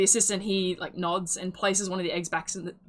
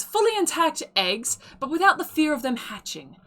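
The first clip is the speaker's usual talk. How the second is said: higher, bright-sold sales patter; auctioneer pitch; 5 semitones higher, 3 dB louder than usual. Acted. Auctioneer to the townsfolk, pitching rare eggs high. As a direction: sell it to the crowd.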